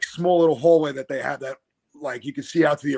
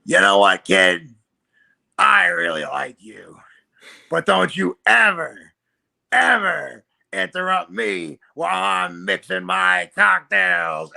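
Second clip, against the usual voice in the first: gruff warning; 3 semitones higher, 7 dB louder, slower than usual. Retold or imitated. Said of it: "and he goes".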